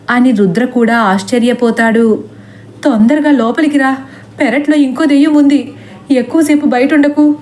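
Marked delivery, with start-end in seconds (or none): 2.8-7.4 higher, quick urgent call; urgent shouting. Acted. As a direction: call him in fast, pitched up. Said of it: "అని సీత మళ్ళీ అరుస్తూ చెప్పేసరికి".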